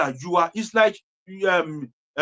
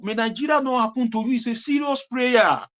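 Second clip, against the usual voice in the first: serious shout; 6 semitones higher than usual. Real, not acted. Heated political rant.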